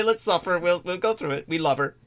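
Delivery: soft, placating murmur; soothing aside. Real, not acted. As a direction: hush everyone and settle them down. Soothing others through a repeated story.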